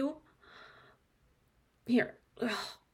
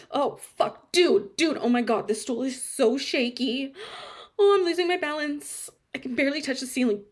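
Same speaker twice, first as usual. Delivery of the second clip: frantic, loud, losing balance; panicked; 3 semitones higher, 4 dB louder than usual. Acted. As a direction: panic as the stool wobbles. Wobbling on stool, panicking.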